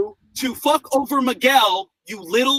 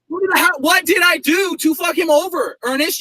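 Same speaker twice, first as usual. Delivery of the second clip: shouting; 5 semitones higher than usual. Real, not acted. Arguing with Ernest, shouting the question. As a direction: yell the question at him. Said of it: "Why do you have to scream?".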